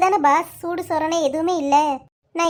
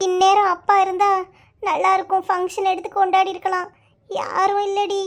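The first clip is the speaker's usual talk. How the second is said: mildly tearful lament. Acted. Tulasi laments to her friend that she has nobody, tearful. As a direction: let the words come out as if crying. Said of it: "எதுக்கு இதை போட்டு அழுதுட்டு இருக்க?".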